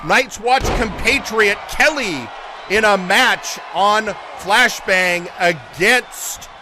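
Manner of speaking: ordinary talk, nothing marked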